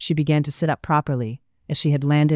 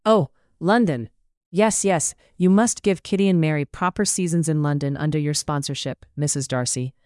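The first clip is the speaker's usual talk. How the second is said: cooing. Acted. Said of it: "Missus Bennet cooed".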